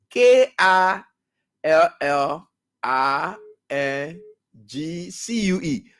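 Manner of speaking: "K A L L I N G C U E" spelled letter by letter, slowly; spelling the caller's word out for listeners. Shown as a demonstration. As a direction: spell "K A L L I N G C U E" out one letter at a time. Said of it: "Killing skill".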